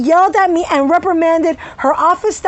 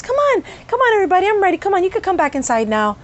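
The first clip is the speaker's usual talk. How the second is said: higher, syrupy-nice fake doctor voice; mock sweet voice; 5 semitones higher, faster than usual. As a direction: sweeten it falsely like a two-faced doctor. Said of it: "a nice, light, soft voice".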